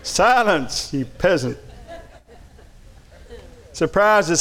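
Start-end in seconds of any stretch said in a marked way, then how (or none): 0.0-1.6 retold yell. Repeating six-year-old's order to his sister, mild mock yell. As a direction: lightly imitate a child's imperious command. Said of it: "And he yelled".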